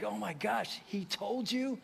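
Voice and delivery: soft, retold teary amazement; hushed, moved disbelief; moved to tears. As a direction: say it quietly, as if touched to tears. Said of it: "I mean, now I'm crying".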